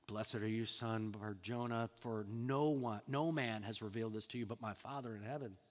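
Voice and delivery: gentle blessing. Retold or imitated. Jesus commending Peter for his confession, gentle and low. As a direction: bring it down low and quiet, like a blessing.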